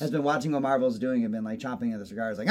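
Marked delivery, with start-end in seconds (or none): none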